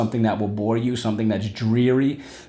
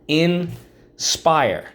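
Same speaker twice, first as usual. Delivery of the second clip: sing-song drill; 6 semitones higher, 3 dB louder than usual. Shown as a demonstration. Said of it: "First syllable, in, second syllable, spire".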